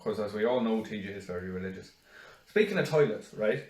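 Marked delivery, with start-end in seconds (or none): 0.0-1.9 low, soft throwaway remark; muttered aside. Real, not acted. Joking aside about T J, low and muttered. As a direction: drop it quietly under the chat.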